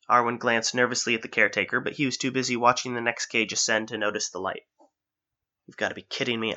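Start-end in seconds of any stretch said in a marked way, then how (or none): 5.6-6.5 muttered. Acted. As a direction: grumble it softly to yourself. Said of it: "Alice muttered".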